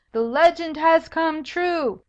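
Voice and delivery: high, loud and slow proclamation. Acted. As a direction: declare it loudly for all to hear. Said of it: "she loudly said".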